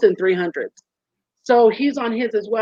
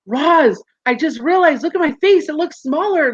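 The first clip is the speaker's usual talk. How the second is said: a retold burst of excitement, higher; excited; 6 semitones higher than usual. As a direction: tell Roz the news, pitch climbing. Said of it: "I'm like".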